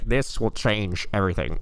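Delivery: dramatic movie trailer voice; lightly voiced trailer narrator. Imitating trailer voice.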